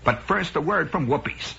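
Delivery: lightly voiced program announcer. Announcer going to a commercial break, light announcer imitation. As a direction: hand over to the sponsor. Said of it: "then the announcer says".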